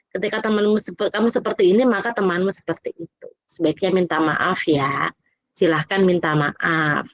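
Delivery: calm teacher guidance. Shown as a demonstration. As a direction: guide the child kindly to say sorry. (guru TK membimbing anak dengan lembut dan pelan)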